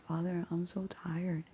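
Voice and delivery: soft, slow and spent, "Father, I'm so tired"; weary plea. Retold or imitated. Tired woman pleads softly to God. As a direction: sigh it out like you have nothing left. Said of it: "I was exhausted".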